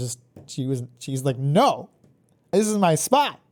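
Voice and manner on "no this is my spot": high, drawn-out put-on stubborn, irritated cat voice. Retelling how the cat refused to move: imitating an annoyed cat. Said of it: "She was clearly annoyed".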